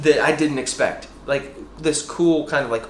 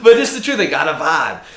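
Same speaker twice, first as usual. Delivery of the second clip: laughing while talking; 4 semitones higher, 7 dB louder than usual. Real, not acted. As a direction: laugh through the words.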